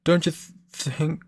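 put-on brash, taunting teenage bully; cocky bully voice. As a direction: sneer it like a swaggering rival. Groose taunting Link.

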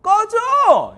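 high, loud, drawn-out yell; hammed-up shout to send someone packing; rude rejection. Rude man rejecting a girl on the street, acted yell. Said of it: "싸가지 없는 남자는 이렇게 얘기할 수 있어".

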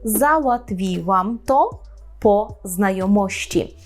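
załatwiłam to po znajomości said slowly and carefully; slow teaching demo. Shown as a demonstration. Teacher giving students the example sentence, slowly. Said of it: "скажемо".

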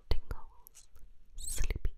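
airy close whisper of single words; whispered test words. Shown as a demonstration. Doctor whispering trigger words during hearing test. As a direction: let each word drift out on breath. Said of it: "I'm just going to whisper two words".

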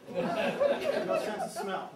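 laughing, high and slow. Real, not acted. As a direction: laugh through the punchline. Laughing punchline about owls.

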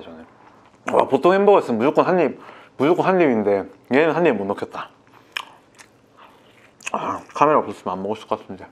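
speaking between big bites; talking while chewing. Real, not acted. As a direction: mouth partly full of burger. Seen 4: Holds burger throughout, bites repeatedly from 5.1 s, chewing continues after.

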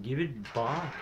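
half-hearted screaming clerk imitation; mock scream. Retelling the funny half-awake daydream, mock screaming. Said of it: "he's screaming".

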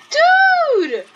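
high, drawn-out gamer yell; real high-pitched protest; exasperated yell. Real, not acted. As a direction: cry out in frustration, falling at the end. Frustrated yell at the game.

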